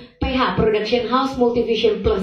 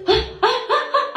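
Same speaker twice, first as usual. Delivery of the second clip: retold startled gasps; 13 semitones higher than usual. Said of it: "aku sendiri sampai kaget".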